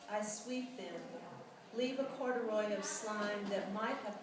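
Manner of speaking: measured, level poem recital; poetry reading. A narrator's reading. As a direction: read the poem aloud, evenly, pausing between lines. Reads her poem aloud.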